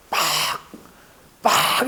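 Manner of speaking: sharp "ppak" of a hand hitting the head; imitated smack. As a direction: imitate a hard slap, twice. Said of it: "이렇게 막 때립니다".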